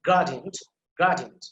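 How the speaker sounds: "gradient" with a strong opening GRA; stress on first syllable. Shown as a demonstration. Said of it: "you have to pronounce it like this".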